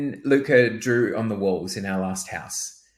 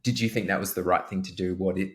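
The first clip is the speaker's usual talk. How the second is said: calm questioning; 3 semitones lower, 4 dB quieter than usual. Retold or imitated. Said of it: "now I ask questions".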